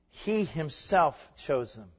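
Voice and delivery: slow stress on "He himself"; emphatic HE HIMSELF. Shown as a demonstration. Preacher showing who did the choosing, "He himself" emphatic. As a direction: weigh out "He himself" slowly and deliberately. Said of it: "It's emphatic".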